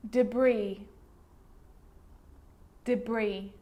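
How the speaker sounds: "Debris" as duh-BREE, no final S; careful repeated model of "Debris", ending on ee; silent S. Shown as a demonstration. Teacher showing sneaky silent S, careful model. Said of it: "an S can also be silent".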